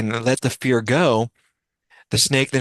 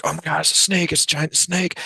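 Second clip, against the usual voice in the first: higher, imitating frightened onlookers; mock panic; 7 semitones higher than usual. Storyteller voicing villagers panicking at the giant snake, mock panic. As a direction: play the crowd's alarm, lightly. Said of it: "all the people around are freaking out".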